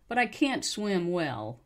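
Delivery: "can't" with its full ah vowel; slow model, "can't" unreduced. Shown as a demonstration. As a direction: give "can't" the whole vowel. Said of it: "usually pronounced correctly".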